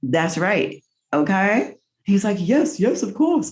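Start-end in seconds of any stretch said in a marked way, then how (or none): 2.4-3.5 high, plummy "Yes, yes, of course"; mock upper-class English accent; posh British father. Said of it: "'Cause he's very posh".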